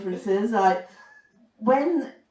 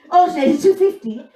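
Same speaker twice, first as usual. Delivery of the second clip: higher, louder gruff Mayo mechanic again; thick Mayo accent repeated; 9 semitones higher, 9 dB louder than usual. Retold or imitated. Mayo mechanic repeating the price in thick accent. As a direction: repeat it flatly, same curt mechanic. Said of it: "I was like".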